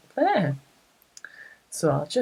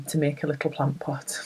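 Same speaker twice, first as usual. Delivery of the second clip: whispering; 5 dB quieter than usual. Real, not acted. Quiet aside while stitching.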